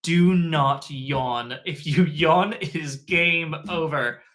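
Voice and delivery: slow, urgent self-warning; inner voice. Retold or imitated. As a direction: plead with yourself to stay awake. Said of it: "and thinking".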